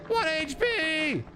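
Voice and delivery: slow, drawn-out high wail. Real, not acted. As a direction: stretch every word out in dismay. Repeats the low health.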